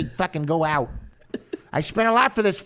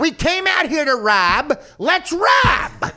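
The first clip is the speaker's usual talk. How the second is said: higher, louder Pesci snarl; Pesci mob accent; 8 semitones higher, 5 dB louder, much slower than usual. Retold or imitated. Comic doing Pesci for his co-host, mob snarl. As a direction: grumble like Pesci with a grudge. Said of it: "Pesci voice".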